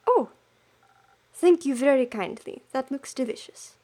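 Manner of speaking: badly attempted French accent. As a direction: have a go at a French accent and miss. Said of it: "It's so bad, I can't do it".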